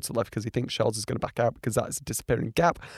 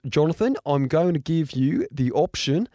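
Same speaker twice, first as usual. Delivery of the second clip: badly faked Australian accent; lightly attempted, hesitant Australian accent; terrible Australian accent. Race director offers Jonathan an option, poor Australian accent. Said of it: "that was a terrible Australian accent".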